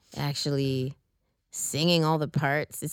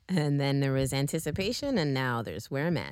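radio voice; 2 semitones lower, 3 dB quieter than usual. Real, not acted. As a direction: slip into a radio host voice. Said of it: "that was my radio voice".

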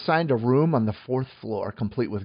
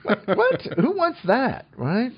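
shrill high what; mock disbelief; 11 semitones higher than usual. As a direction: squeak out the disbelief. Mock outrage at modern amenities.

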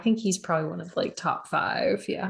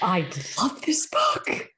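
whisper; 7 semitones higher than usual. Real, not acted. Gushing over a favourite book.

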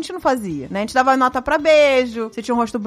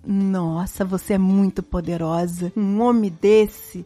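imitating the maid; 7 semitones lower, slower than usual. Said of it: "ela virou e falou assim".

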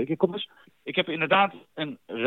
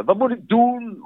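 panicked client; 8 semitones higher than usual. Retold or imitated. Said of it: "Of, eh".

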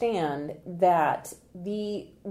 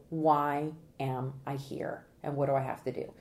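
lower, even imitation of jurors; imitating jurors' question; 4 semitones lower than usual. Consultant explaining what jurors wanna know, low measured question. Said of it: "because they wanna know".

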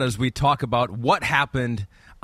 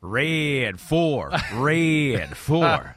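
quarterback's long-voweled Texas call; Texas twang; 2 semitones higher, much slower than usual. Shown as a demonstration. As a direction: snap count in a drawn-out Texas twang. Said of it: "That's my Texas".

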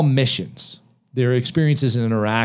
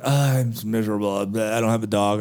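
mock miserable; 2 semitones lower, 4 dB quieter than usual. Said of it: "a lot of people are like".

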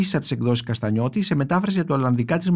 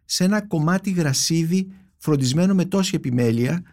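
poem reading. Acted. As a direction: let each line land, unhurried. Reads a poem aloud. (απαγγελία ποιήματος)

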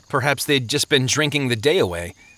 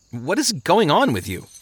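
higher-pitched bewildered question; baffled; 5 semitones higher than usual. Acted. Traveler questions the shackled sleeper, baffled. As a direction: ask in mild exasperation.

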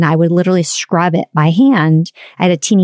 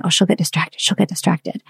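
muttered thought; 6 dB quieter than usual. Retold or imitated. Inner thought while cleaning.

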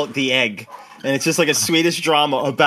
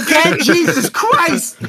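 exasperated groan; 11 semitones higher, 4 dB louder, slower than usual. Retold or imitated. Retelling own panicked exasperation.

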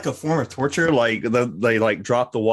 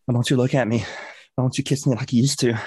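pouty lover; faster than usual. Pretend. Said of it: "And it's like".

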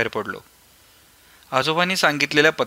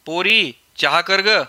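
slow, raised call toward the kitchen; old man calling inside for tea, raised voice; 5 semitones higher, 3 dB louder, slower than usual. Acted. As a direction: call the girl from the front room. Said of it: "तिथूनच ओरडून सांगितलं".

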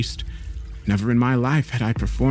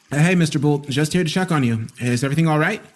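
raised voice calling through a door; 5 semitones higher, faster than usual. A narrator's reading. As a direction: call out to check on him. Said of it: "I called".

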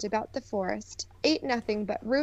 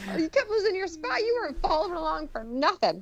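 laughing tease; 7 semitones higher, faster than usual. Real, not acted. Laughing teasing.

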